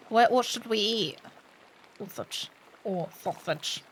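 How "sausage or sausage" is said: breathy murmured sausage; whispered sausage. Pretend. Player joking about food to the table, whispered. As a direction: slip the joke in under the breath.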